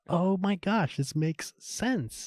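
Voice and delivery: high, drawn-out wonder; stretched-out amazement, acted from memory; awed realization. Acts out moment it all clicked.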